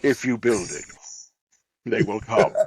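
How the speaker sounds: lightly voiced film villain; movie villain line.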